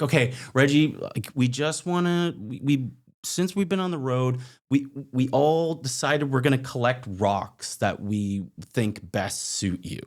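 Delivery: imitating hosts making a heartfelt speech; earnest hosts.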